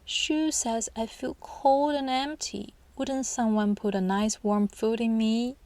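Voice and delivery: a hint of a pleading shoe; talking shoe. Shown as a demonstration. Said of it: "make an inanimate object talk".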